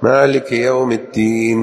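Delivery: الدين with a held voiced د; doubled d in الدين; clear dal. Shown as a demonstration. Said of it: "الدين بالدال".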